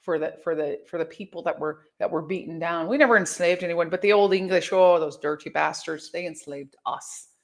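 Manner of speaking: Irish accent, imitating a talkative driver. Uber driver lecturing an American lass, in Irish accent. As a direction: give the driver's lilting Irish brogue. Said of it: "my Uber driver told me".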